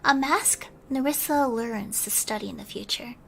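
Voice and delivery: gentle storybook reading with hushed moments; bedtime story narration. A narrator's reading. Streamer reading a bedtime story to her chat, gentle narration. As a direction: read it like tucking listeners in, dropping to a hush now and then.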